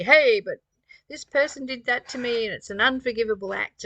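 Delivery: loud indignant outburst, calming slightly; the hurt ego barking back in protest; pain body protesting. Retold or imitated. The pain body objecting to forgiveness, indignant and loud. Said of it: "Our pain body is gonna rear up now and say".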